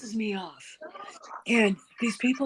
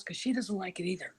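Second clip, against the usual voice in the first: whispered aside, like sharing a secret; 8 dB quieter than usual. Real, not acted. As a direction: drop to a whisper for the gossip. Confiding aside about the Queen.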